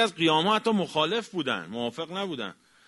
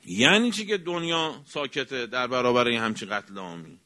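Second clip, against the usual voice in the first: indignant protest. Shown as a demonstration. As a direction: demand an answer, indignant. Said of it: "اعتراض کنی به قتل".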